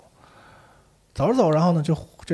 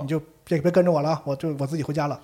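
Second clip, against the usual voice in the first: louder, higher panicked plea; frightened pleading; 3 semitones higher, 3 dB louder than usual. Retold or imitated. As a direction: beg the monster to leave you alone. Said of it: "这女的害怕了". (害怕的母亲高声求饶)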